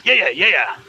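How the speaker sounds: lightly voiced rat character; a hint of a squeaky rat; twitchy squeaking rat voice. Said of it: "Get your little rat voice back in there".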